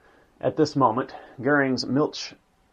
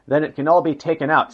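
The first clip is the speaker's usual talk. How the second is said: louder, higher, mildly triumphant; 4 semitones higher, 6 dB louder than usual. A narrator's reading. Hitler answers the engineer on excess weight, mildly triumphant. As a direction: read with a touch of triumph. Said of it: "said Hitler triumphantly".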